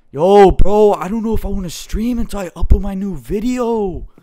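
high, loud exaggerated impression; Grox. YouTuber imitating friend putting off streaming, high mock impression. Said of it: "let me see if I can say this like Grox".

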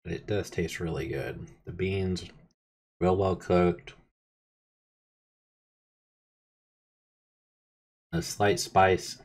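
talking between bites; chewing while talking. Real, not acted. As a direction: mouth partly full. Seen 1: spoonful taken at -3s; jaw working, lips pressed while talking.

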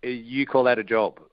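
a mild retold yell at the husband; wife scoffing, a mild mock yell; retold mock shout. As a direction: toss out the scornful question, half-shouting. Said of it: "Kath said".

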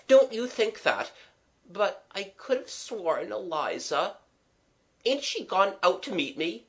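earnest, mildly agitated apology; apologetic gentleman friend. Acted. Gentleman friend apologising to miss for his turn, flustered.

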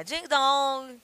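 imitating a doorbell; ding-dong like a bell. Shown as a demonstration. (imitando campainha)

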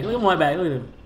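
bright excited repeat. Real, not acted. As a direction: show it off, thrilled. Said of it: "repeated, excited".

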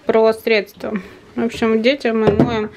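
slushy lisp after the dentist. Real, not acted. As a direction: lisp through a numb mouth. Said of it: "шепелявым голосом расскажу".

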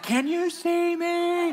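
high, slow, laughing call to the sky; calling up to jets. Retold or imitated. Preacher reenacts waving at fighter jets, high laughing call. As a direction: wave and yell up at the planes. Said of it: "I mean, I was screaming".

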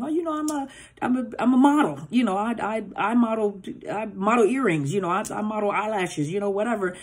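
eager victim telling about herself. Retold or imitated. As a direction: gush about yourself, playing the naive date. Victim answering narcissist's questions.

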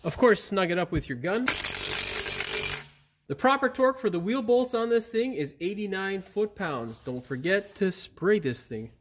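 upbeat how-to host delivery; video presenter. Acted. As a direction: project to the audience with punchy emphasis. Scripted presenting to camera, plain muttered asides between.

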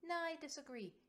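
dismissive scoff. Acted. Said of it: "Kovanen scoffs".

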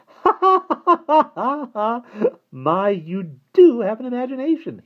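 high-pitched, silvery laughing voice; a giggling little man, amused by the boy; high silvery laughter. A narrator's reading. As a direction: laugh it out high and bright like a pixie. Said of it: "high-pitched, silvery laughter".

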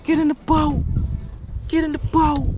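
high-pitched, insistent chant; excited urging. Real, not acted. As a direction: call it out high, over and over. Urging the fish into boat.

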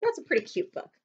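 usual speaking voice

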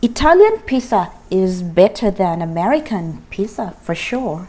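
very slow, word by word; slow drill model. Shown as a demonstration. Teacher leads students in a slow choral drill. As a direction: lead the class through it slowly. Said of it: "แล้วไปพร้อมกัน สาม สี่".

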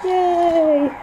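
high, loud cheer of delight; excited cheer. Real, not acted. Cheering at Family Feud on TV, excited loud yay.

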